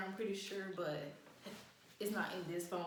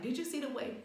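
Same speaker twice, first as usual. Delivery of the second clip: retold cracking up; 5 semitones higher than usual. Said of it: "And then I die again".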